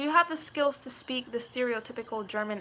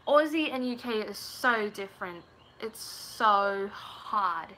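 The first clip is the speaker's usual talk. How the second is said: put-on British-Australian accent, "so" stretched; attempted Aussie and British accent; slower than usual. Shown as a demonstration. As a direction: wobble between UK and Aussie accents. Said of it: "I did the so's different".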